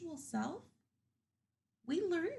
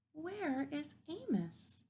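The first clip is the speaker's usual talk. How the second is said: slow, higher, wondering "where is Amos"; worried animals; 5 semitones higher, 4 dB quieter, slower than usual. Acted. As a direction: ask it with gentle concern. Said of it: "scratching his head with concern".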